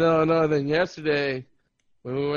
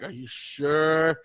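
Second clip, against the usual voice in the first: retold doubt; much slower than usual. Acts out doubting the server.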